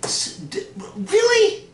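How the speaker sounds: a stunned, squeaky really?; disbelieving squeak. Acted. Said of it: "Hercules is like".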